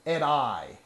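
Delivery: lightly hammed-up dramatic speech. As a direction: deliver it like a wounded leader. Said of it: "Very dramatic, sir".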